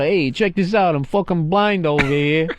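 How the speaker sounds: lightly imitated laid-back caller; coolest blind guy. Host imitating the blind caller, mock cool. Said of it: "he sounded like the coolest blind guy ever".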